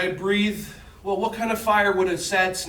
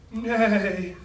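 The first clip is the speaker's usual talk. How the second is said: a droopy, mournful neigh; a mild mock sad neigh; sad horse neigh; 3 semitones higher than usual. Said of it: "what would a sound horse sad like".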